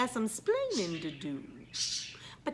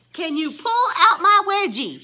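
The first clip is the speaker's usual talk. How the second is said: louder, disbelieving "pull out my wedgie?"; loud scandalized echo; incredulous repeat; 4 semitones higher, 9 dB louder than usual. Retold or imitated. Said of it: "These are the things that people say to me".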